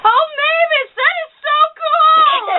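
very high, loud mock-gushing squeal; hammed-up excited phone call to drown out your sister; pretend phone chatter. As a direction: gush at an imaginary caller, drawn out and over the top. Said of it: "pretend like you're on the phone also".

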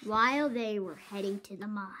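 hushed storyteller whisper; whispered narration. A narrator's reading. Narrating the Minecraft play.

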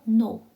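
"no" with the w heard as an oo glide; sounded-out pronunciation. Shown as a demonstration. Teacher showing learners how no is read, pronunciation demo. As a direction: model "no", ending on an oo sound. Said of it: "거의가 우 발음 나죠".

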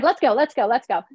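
impatient inner urging. Retold or imitated.

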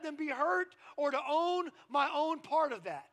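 forceful pulpit exhortation; preaching. Real, not acted. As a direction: preach it with conviction to the congregation.

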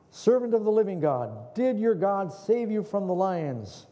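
king calling anxiously into the lion's den. Acted. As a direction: call down into darkness.

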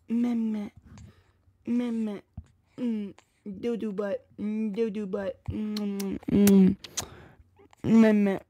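soft whiny meh and doo-doo butt; mock baby noises. Shown as a demonstration. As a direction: babble like a baby. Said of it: "what I be doing".

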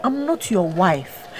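soft, slow, weary denial; quiet plea. Acted. Married woman softly pleading with the man following her. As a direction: let it sink, drained and begging.

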